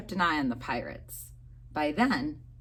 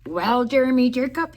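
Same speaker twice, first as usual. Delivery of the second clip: pirate voice; 5 semitones higher, 7 dB louder than usual. A narrator's reading. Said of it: "he said".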